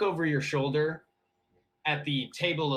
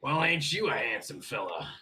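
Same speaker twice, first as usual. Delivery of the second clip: bartender. Acted. Bartender greeting a newcomer at the bar, lightly voiced. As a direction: give a hint of a folksy bartender. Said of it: "bartender walks over from you and he goes".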